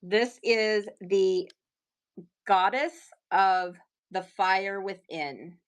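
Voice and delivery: slow, grand announcement; dramatic reveal. Acted. Presents the lava goddess piece slowly and grandly. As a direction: unveil it like a legend.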